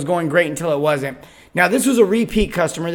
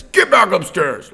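drawn-out, mildly raised mean order; mean yell; 4 dB louder, slower than usual. Retold or imitated. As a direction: imitate a man yelling at a child. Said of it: "he yells at her, and he says".

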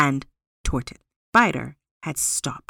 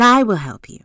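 Spider voice; 4 semitones higher, 9 dB louder than usual. A narrator's reading. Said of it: "The spider said".

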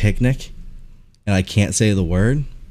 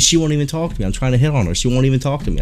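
mild mock yell, higher pitch; retold yelling; 5 semitones higher, faster than usual. Older man complaining he gets ignored, mildly mock yelling. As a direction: imitate a man's insistent griping. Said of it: "like, yelling at me".

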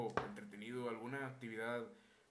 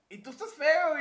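loud high comeback; mock loud retort; 13 semitones higher, 13 dB louder than usual. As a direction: fire it back at the bully. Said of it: "Y yo de que".

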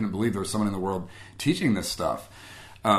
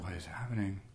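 stunned; 13 dB quieter than usual. Retold or imitated. Silent stunned thought, retold.

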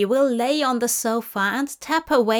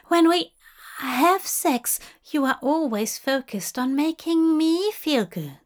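higher, fussy nervous gentleman; nervous Aziraphale; 4 semitones higher than usual. Acted. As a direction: raise the voice, flustered and polite.

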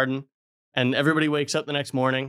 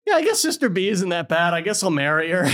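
higher, grudging resignation; mock reluctant shrug; 5 semitones higher than usual. Brother A accepting sister B, hammed-up grudging shrug. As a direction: settle for it with a sigh. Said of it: "brother A is like".

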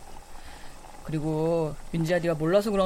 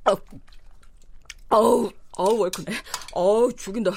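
loud moans of delight over the spicy taste; ecstatic eating; 4 dB louder than usual. Acted. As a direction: savour it with noisy pleasure. Savouring spicy ramen loudly.

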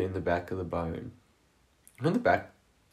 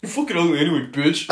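louder, higher mock snarl breaking into a laugh; mock angry insult; 6 semitones higher, 6 dB louder than usual. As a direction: spit it out as a spurned guy, half laughing. Joining the mock rejected guy.

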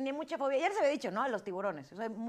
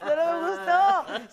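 higher, louder, slower emphatic repeat; 7 semitones higher, 7 dB louder, slower than usual. Real, not acted. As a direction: stretch it out loud and high.

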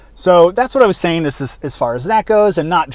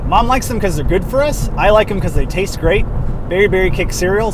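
commercial read. Shown as a demonstration. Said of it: "something like that".

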